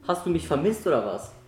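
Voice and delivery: mocking surprise. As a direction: play innocent with a smirk.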